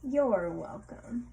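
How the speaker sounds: polite reply. Shown as a demonstration. Modeling the polite answer.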